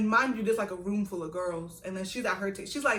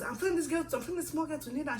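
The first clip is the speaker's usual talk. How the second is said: lightly voiced indignant senior; 8 semitones higher, faster than usual. Senior complaining to matron.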